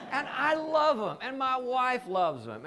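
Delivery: high, slow words through laughter; laughing. Real, not acted. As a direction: still laughing as you say it. Laughing after joke.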